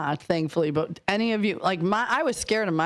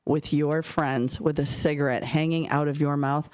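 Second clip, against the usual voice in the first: stern warning; 4 semitones lower than usual. Retold or imitated. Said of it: "looking at me dead in the eye".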